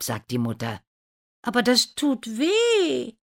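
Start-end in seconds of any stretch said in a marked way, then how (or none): 1.4-3.1 high, whining protest; protesting stepsister. A narrator's reading. Daughter objects to cutting her heel, high protest. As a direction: object in a high, pained girl's voice.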